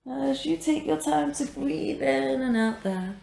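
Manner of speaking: measured meditation guidance with long pauses; guided meditation. Real, not acted. Yoga teacher guides a class resting in supported fish, guided meditation. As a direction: guide the breath, leaving space after each phrase.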